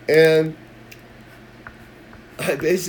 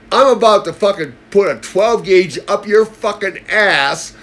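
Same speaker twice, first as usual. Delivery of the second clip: furious retold threat; 7 semitones higher, 7 dB louder than usual. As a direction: shout him down with fury. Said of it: "I got really pissed".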